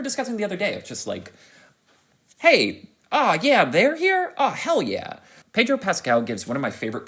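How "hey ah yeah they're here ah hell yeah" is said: high, loud excited welcome; excited cheering. Acted. Fan spotting who's who in the voice cast, excited. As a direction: greet each arrival with a whooping cheer. Acted delight at a star cast.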